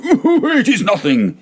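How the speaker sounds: put-on high, slow, giggling drunk voice; laughing it off. A narrator's reading. Fortunato dismissing his cough, high drunken giggle. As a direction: wave it away with a drunken laugh.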